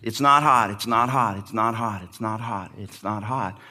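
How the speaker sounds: stubborn denial fading away; fading repetition. Retold or imitated. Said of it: "no matter how much he says".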